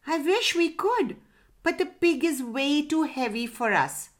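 high-pitched, mildly regretful parrot; mild sadness. A narrator's reading. Parrot regrets pig is too heavy, mild sadness. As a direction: let the wish down gently. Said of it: "said the parrot sadly".

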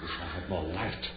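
loud searching call. Acted. David searches the house for Ruth, loud call. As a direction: call through the dark house.

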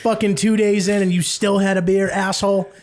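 mock scolding. Mock scolding friend over beer.

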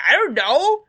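high, loud little-creature voice; squeaky, exasperated answer; flustered hamster. Acted. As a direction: squeal it helplessly.

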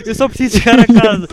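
grito furioso e agudo, rápido; a berrar de raiva no restaurante; gritar irritado. Retold or imitated. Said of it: "basei do restaurante a gritar". (rapaz perdido grita com os clientes, furioso e agudo)

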